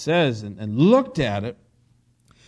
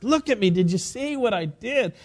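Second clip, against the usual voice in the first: lightly voiced proud little boy, higher pitch; excited toddler; 6 semitones higher than usual. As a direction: imitate a tot showing off his first steps. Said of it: "he gets so excited".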